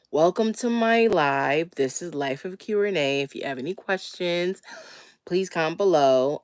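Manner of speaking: slightly wheezy from a cold. Real, not acted. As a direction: talk through a wheezy chest cold. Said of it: "I sound a little wheezy because I'm getting over a cold".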